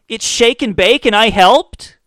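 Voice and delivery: put-on high, slow kid voice quoting the ad; sing-song the commercial kid; Shake and Bake kid line. Comic mocking the ad kid, high kid voice.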